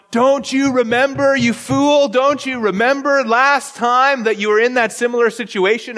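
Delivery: high-pitched mock rebuke; acted-out exasperation at someone who forgot; exasperated scolding. Acted scolding of oneself as reader.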